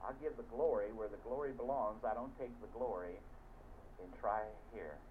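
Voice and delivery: ordinary talk, nothing marked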